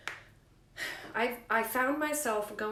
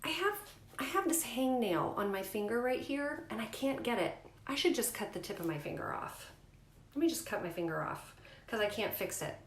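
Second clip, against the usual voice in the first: sarcastic mock reasoning; 3 semitones higher than usual. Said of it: "is kinda like".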